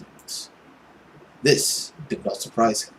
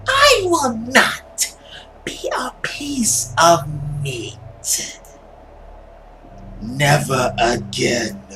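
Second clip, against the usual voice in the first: slow, dramatic villain monologue; lightly voiced dark inner monologue; brooding monster; slower than usual. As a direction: voice a tormented creature vowing power.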